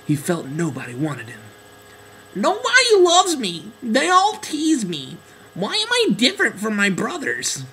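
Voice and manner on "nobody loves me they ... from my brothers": high, tearful little duckling; sad duckling voice. Acted. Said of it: "He secretly wept at night".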